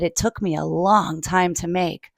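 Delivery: "It took me a long time to make" said softly and low; mother, gently. Acted. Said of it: "his mother said".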